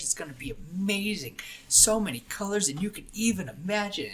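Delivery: high, eager rush of wonder; excited yammering. Acted. Girl climbing ahead tells her companion about the sky, yammering on. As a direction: chatter on in singsong delight. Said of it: "she's just yammering on, yammering on".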